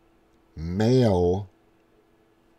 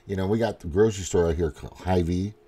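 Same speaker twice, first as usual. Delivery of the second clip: usual speaking voice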